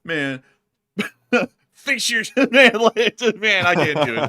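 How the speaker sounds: high, loud, helpless laughter; too tickled to finish the words; laughing. Real, not acted. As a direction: break down laughing mid-phrase. Cracks up attempting risky pun.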